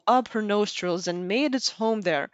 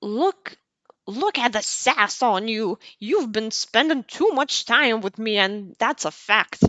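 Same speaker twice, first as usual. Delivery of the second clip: grandma voice. Acted. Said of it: "I do my best with my grandma voice".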